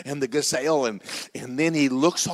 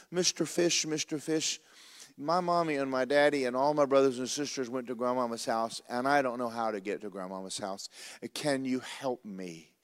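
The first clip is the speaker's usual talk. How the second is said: little creature pleading. Acted. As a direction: ask like a lost little creature.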